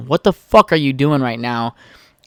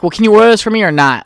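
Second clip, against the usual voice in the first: exasperated demand; 7 semitones higher, 5 dB louder, faster than usual. Retold or imitated. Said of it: "just blown away".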